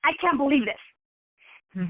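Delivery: put-on slow, drawn-out childish sulk; stomping little kid. Upset business owner sulking like a stomping five-year-old. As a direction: pout it like a five-year-old mid-tantrum. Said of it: "like a five-year-old little kid stomping your feet".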